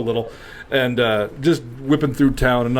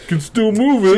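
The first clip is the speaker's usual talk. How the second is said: higher, cheerful mock-mom voice; mock mom caption; 9 semitones higher, 3 dB louder than usual. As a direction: read it like a chipper mom. Reads mom's photo caption.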